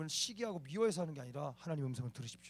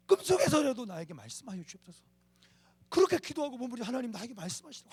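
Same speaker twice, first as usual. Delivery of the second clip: pleading prayer, rising higher and louder; fervent prayer; 5 semitones higher, 5 dB louder than usual. Shown as a demonstration. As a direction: cry out to God, phrase after phrase. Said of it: "이렇게 기도해야 돼요".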